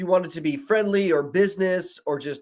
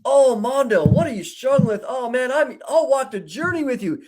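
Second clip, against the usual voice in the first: lightly voiced overly sympathetic chatbot, a bit higher; gushing chatbot; 3 semitones higher than usual. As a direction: imitate a syrupy, eager-to-please AI, a touch higher. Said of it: "This is how I was talking".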